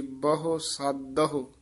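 "ਸਾਧੋ" slowly, aspirated dh and separate final ho; careful pronunciation. Shown as a demonstration. Teacher showing learners the word, "ਸਾਧੋ" slowly as saad-dha-ho. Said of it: "ਪਾਦ ਸਾਧੋ ਕਹਿਣਾ ਹੈ".

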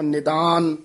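"ਨਿਦਾਨ" with a plain ਦ, not ਧ; pronounced with dadda. Shown as a demonstration. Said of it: "ਦੱਦੇ ਨਾਲ ਉਚਾਰਨ ਕਰਨਾ ਹੈ".

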